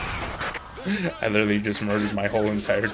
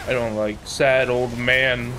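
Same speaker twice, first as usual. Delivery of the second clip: usual speaking voice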